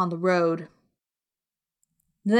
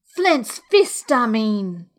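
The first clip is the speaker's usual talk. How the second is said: angry cry; much slower than usual. A narrator's reading. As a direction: burst out impatiently, pitch leaping. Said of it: "he cried".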